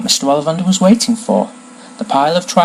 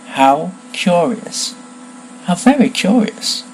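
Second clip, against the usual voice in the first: drawn-out, higher musing; intrigued wonder; 6 semitones higher, slower than usual. Acted. Wand seller marvels at the unexpected match, intrigued. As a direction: marvel slowly at the coincidence.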